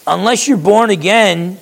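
impatient Jesus pressing Nicodemus, exasperated. Retold or imitated. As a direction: push it, out of patience. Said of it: "do you sense the lack of patience?".

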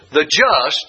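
The just, with just lifted and set apart; stress on just. Shown as a demonstration. Teaching the class, he singles out just with stress. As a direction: lean on the word just. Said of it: "that's one word".

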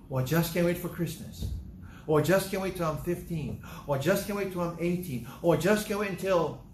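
impatient, eager outburst; so excited. Acted. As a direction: gush like a kid who can't wait. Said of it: "You're so excited about something".

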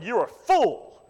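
mild mock voice of God rebuking the farmer; God's judgment. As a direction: deliver it like a verdict from heaven. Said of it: "And God that night said".

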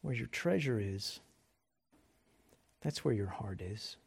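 hushed and reflective; soft reflective repeat. Real, not acted. Quiet repeat of the verse.

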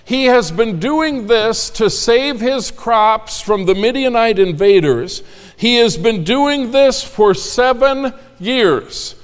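high, lively storytelling; animated. Acted. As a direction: vividly paint the scene.

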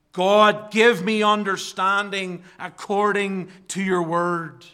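loud, high pleading cry to God; fervent cry. Shown as a demonstration. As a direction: call it out like a desperate prayer. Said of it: "as if he wants to scream".

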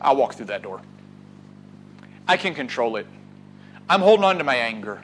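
low, soft defiance; stubborn Cain. Acted. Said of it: "what Cain did".

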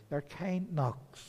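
reassuring emphasis; gentle stress. Real, not acted. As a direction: say "kind" tenderly and slowly. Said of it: "but they're kind".

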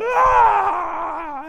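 sudden loud high yell of frustration; a child's angry scream ripping off his eye patch; frustrated scream. Retold or imitated. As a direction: let out a sharp pained shout. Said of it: "this blood-curdling scream".

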